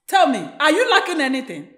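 insistent question at normal volume; firm motherly demand; pressing question. Acted. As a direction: press her for an answer. Mother presses daughter for an answer.

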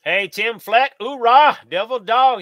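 loud, high Marine hoorah. Real, not acted. Greeting a fellow Marine viewer with a loud hoorah.

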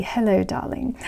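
a posh British RP greeting. Pretend. Vlogger playfully showing off a British RP accent. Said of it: "there's British R P".

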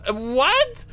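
high cry-laugh of disbelief. Real, not acted. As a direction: squeal it through laughter.

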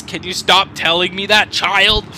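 mock-stern dad, loud; a hint of a fed-up parent telling off a child; scolding father.

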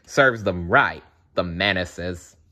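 slow, amused gloat; amused, satisfied chuckle. Real, not acted. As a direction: chuckle at the villains' fate.

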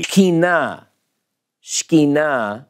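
Shekhinah as "shkee-NAH", first syllable hurried; proper Hebrew pronunciation. Shown as a demonstration. Teacher illustrates the Hebrew syllables, Shekhinah as hurried "shkee-NAH". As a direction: hurry through "shkee" and land on a long "NAH" in Shekhinah. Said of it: "S H K N E E is the first syllable".

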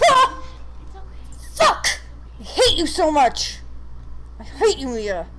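angry. Real, not acted. Hit by enemy, yells.

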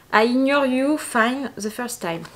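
English read with a French accent; bad English accent. Real, not acted. French vlogger reading a calendar message, rough French-accented English. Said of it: "désolée pour mon accent pourri".

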